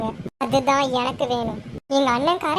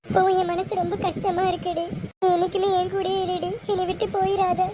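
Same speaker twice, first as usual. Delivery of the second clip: higher, tearful pleading; 4 semitones higher than usual. Acted. Sister begs younger never to leave, tearful. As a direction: beg as if about to cry. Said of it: "அக்கா அழுகாத".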